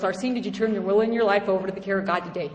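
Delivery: a light imitation of a caring sponsor, quick; gently asking a question she already knows the answer to; mild sponsor voice; loving voice. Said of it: "in her very, very loving voice".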